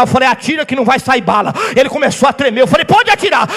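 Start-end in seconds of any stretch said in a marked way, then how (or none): 0.3-1.5 bold shouted dare to the gunman; defiant shout. Retold or imitated. Pastor daring the gunman to shoot, defiant shout. 2.8-3.5 higher, louder fearless dare; defiant dare. Retold or imitated. Pastor daring the armed robber, loud bold challenge.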